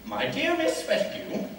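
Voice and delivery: high-pitched letter dictation; dictating a letter. Acted. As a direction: announce the salutation for someone to write down. Dictates a letter to his friend.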